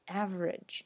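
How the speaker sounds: average as AV-rij; two-syllable average; syllable dropped. Shown as a demonstration. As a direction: average with no middle vowel. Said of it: "变成了average".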